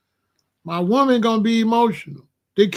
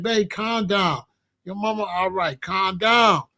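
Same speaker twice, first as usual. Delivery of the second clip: softened, soothing reassurance; calming. Acted. Man settling his woman upset about her mama, calming. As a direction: talk her down gently. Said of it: "No, your job's like".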